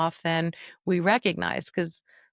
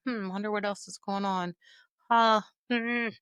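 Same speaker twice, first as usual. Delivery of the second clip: curious musing. Shown as a demonstration. Caregiver calmly wondering about the cause, musing. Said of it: "And I just wanna say".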